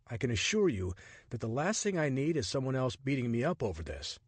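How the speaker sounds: a hint of a startled man grumbling; Richard, exasperated. Richard's dialogue voiced.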